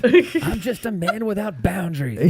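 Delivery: laughing. Pretend. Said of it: "sounds like a seventies detective show".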